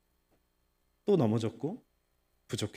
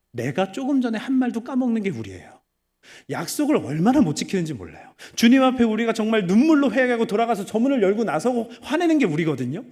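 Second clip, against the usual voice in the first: loud, higher preaching climax; forceful preaching; 7 semitones higher, 7 dB louder than usual. Acted. Pastor rebuking the congregation, loud preaching. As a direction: drive the point home to the pews.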